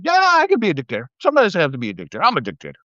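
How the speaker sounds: quick, mocking impression, high at the start; mocking quote. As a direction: sneer it out like a boastful strongman. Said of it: "porn star Humphrey said".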